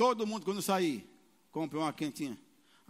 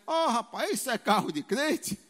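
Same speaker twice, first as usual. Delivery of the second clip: teasing laughingly; 2 semitones higher, 5 dB louder than usual. Retold or imitated. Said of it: "Mas falou rindo".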